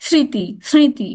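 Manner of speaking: স্মৃতি said slowly, "sriti", with a slight nasal tinge; slightly nasal. Shown as a demonstration. Teacher showing the rule, nasal sound in স্মৃতি. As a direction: stretch স্মৃতি, m melting into nasality. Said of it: "নাসিক্য একটা উচ্চারণ আছে".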